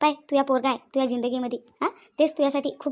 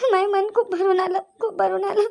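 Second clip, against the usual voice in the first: choked up; 3 semitones higher than usual. Acted. Wife overwhelmed, crying.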